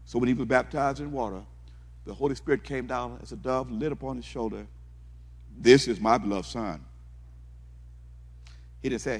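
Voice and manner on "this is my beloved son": a loud, proud declaration from heaven; voice of God. Acted. Preacher voicing God over his son, proud and loud. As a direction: proclaim it like a proud father.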